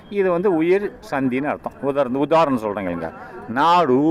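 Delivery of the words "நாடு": நாடு slowly, drawing out the final ஊ sound; final vowel shown. Shown as a demonstration. Teacher showing students a word that ends in a vowel, drawn-out pronunciation. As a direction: stretch நாடு so its last sound is a long "oo". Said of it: "சொல்லும்போது கடைசியில் ஊன்னு வருதா".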